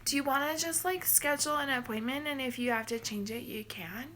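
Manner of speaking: hesitant mock receptionist, hemming; clueless receptionist impression. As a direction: play her lost for words. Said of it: "She was like".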